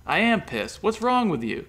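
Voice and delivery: high, loud scolding; angry high scolding; reprimanding. A narrator's reading. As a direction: tell him off sharply. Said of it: "Katrina reprimanded him".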